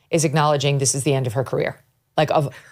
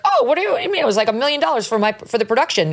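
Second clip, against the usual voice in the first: scoffing Oprah; 6 semitones higher, much faster than usual. Retold or imitated. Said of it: "scoff this off as like".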